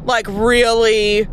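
drawn-out sceptical really; slow mocking disbelief; disbelieving. Real, not acted. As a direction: stretch it slowly, doubting them. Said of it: "That thought has never crossed your head?".

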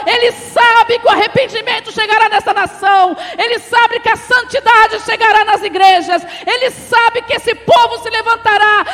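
high, loud prophetic proclamation; full-force preaching. Real, not acted. Preacher warning the congregation about the nation, full-force preaching. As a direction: drive each clause out at full volume.

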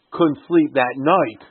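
couldn't sleep that night drawn out slowly; slow emphasis. Shown as a demonstration. Teacher stresses the verse phrase to students. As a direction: let each word land slowly. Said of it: "If you say".

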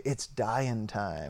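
drawn-out sinister growl of a line; slow menacing quote. Retold or imitated. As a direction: drag it out like a villain. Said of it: "what did he say?".

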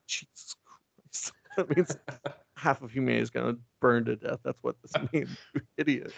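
under your breath, fed up with an idiot; exasperated Lex. Retold or imitated.

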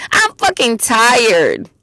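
imitated fed-up outburst, stretched at first; retold snapping. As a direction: act out snapping from exhaustion. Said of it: "I snapped".

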